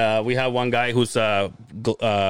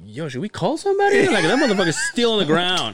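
retold worried question; 8 semitones higher than usual. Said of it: "I'm like".

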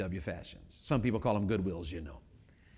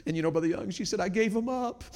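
higher, mock-tearful churchgoer; retold crying, voice pitched up; imitated crying; 10 semitones higher than usual. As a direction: act out a tearful confession. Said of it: "She starts crying and she goes".

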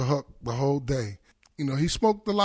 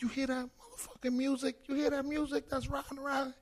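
excited impression of a rapper; 9 semitones higher, 12 dB quieter than usual. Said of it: "He's like".

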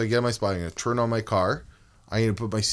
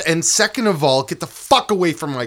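mock tough reply; 6 semitones higher, 4 dB louder than usual. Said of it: "I'd be".

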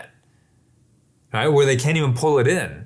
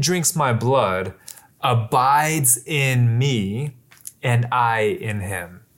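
slow, deliberate reading of the verse; slow scripture reading; slower than usual. Acted. Preacher reading Jesus's words to the congregation, slow and deliberate. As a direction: let each word of scripture land slowly. Reads scripture slowly aloud.

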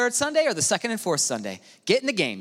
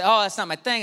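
reluctant excuse; 4 semitones higher than usual. Retold or imitated. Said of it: "I think a lot of us say".

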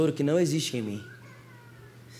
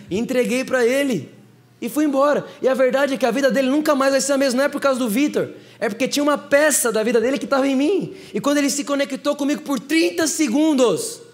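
higher, louder preaching climax; preaching at full force; 8 semitones higher, 3 dB louder than usual. Acted. Preacher proclaiming to the crowd how the man's life changed, full force. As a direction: build to a ringing proclamation.

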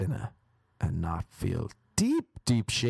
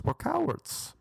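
squeaky confession; slower than usual. Acted. High squeaky self-mocking admission.

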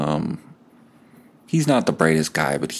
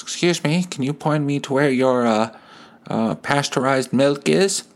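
put-on polite old lady; 6 semitones higher than usual. Old lady asks grocery boy.

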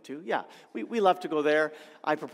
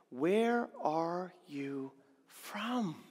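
slow reading; 3 dB quieter, much slower than usual. Shown as a demonstration. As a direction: read the question very slowly. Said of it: "look at the question he asks".

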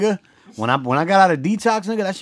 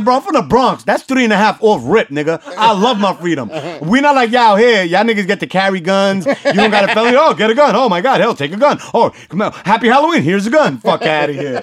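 high, loud laughing rant; ranting at the cop; 6 semitones higher, 4 dB louder than usual. Retold or imitated. Retelling how he ranted at the cop about guns, loud and high. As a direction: rant at him half laughing. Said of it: "I was like".

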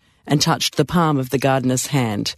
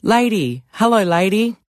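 raised, higher voice calling to someone across the street; 4 semitones higher than usual. A narrator's reading. Gardener hails the nanny from the street, calling out. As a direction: call it out cheerfully from the street, a bit higher. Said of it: "called out from the street".

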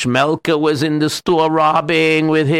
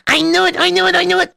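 excited; much faster than usual. Acted. Excited opening exclamation.

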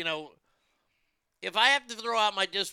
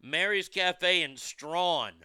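slow and deliberate; 3 semitones higher, much slower than usual. Shown as a demonstration. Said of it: "S T R A W N".

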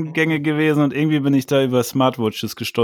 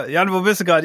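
live radio host; 7 semitones higher than usual. Pretend. Mock live podcast host call.

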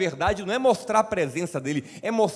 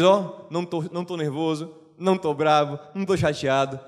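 calm God; 3 semitones lower than usual. Retold or imitated. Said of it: "Deus diz".

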